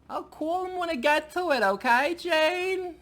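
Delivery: very high-pitched old man impression; old Jewish husband. Husband putting off Jane, high old Jewish husband impression. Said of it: "like an old Jewish couple".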